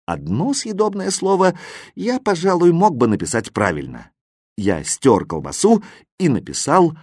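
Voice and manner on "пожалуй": ordinary delivery, nothing marked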